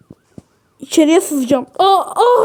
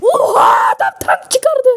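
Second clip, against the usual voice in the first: startled yelp, pitched up; shocked cry; 5 semitones higher than usual. Real, not acted. Shocked that the other player brought out a tank. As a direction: blurt it out in shock.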